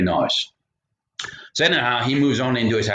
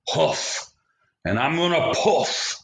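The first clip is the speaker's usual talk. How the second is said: wolf winding up to blow; big bad wolf threat; 5 semitones higher than usual. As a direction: build up the wolf's threat.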